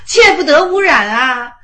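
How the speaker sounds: loud insistent exclamation; emphatic outburst. Real, not acted. Teacher warning students not to defile it, loud and insistent. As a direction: drive the warning home at full voice.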